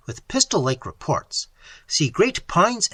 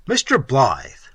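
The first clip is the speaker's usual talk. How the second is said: slow, sweet, ingratiating; butter him up slowly; winningly modulated; 2 semitones lower, 4 dB louder, slower than usual. Acted. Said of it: "in a winningly modulated voice".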